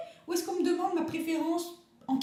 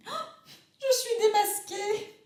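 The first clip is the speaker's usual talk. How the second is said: laughing; 8 semitones higher, slower than usual. Acted. Guest caught out, laughs.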